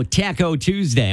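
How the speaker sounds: Taco as TACK-o in Taco Tuesday; mother-in-law's pronunciation. Retold or imitated. Host quotes her dinner night, Taco said TACK-o. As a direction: say Taco with the a of cat. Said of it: "my mother-in-law says".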